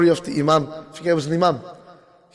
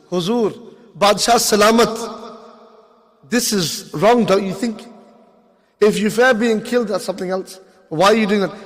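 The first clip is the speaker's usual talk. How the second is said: mock respectful address. Addresses ruler in imagined speech.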